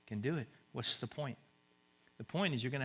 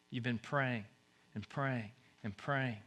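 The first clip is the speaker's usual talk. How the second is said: ordinary delivery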